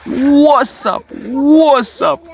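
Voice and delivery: high, swooping playful call; hyped greeting. Pretend.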